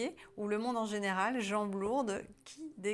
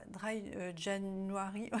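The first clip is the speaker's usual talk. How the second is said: French accent; much slower than usual. Real, not acted. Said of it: "avec mon super accent".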